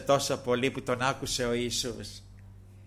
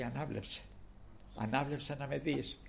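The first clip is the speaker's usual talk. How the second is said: 1 soft command; 10 dB quieter than usual. Retold or imitated. Jesus heals softly.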